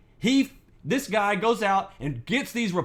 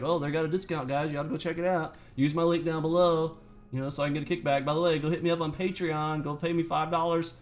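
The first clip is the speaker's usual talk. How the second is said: mocking a shill; 2 semitones lower than usual. Streamer mocks a rival plugging affiliate links, lightly voiced. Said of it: "he's always like".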